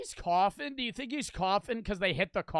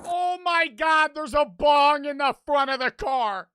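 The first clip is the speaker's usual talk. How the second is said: shocked exclamation; 7 semitones higher, 6 dB louder than usual. Real, not acted. Spots bong in wrecked car.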